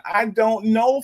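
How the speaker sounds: high, slow drawn-out disbelief; baffled. Real, not acted. Streamer reacting to a viewer's complaint, drawn-out disbelief. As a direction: stretch it out in disbelief.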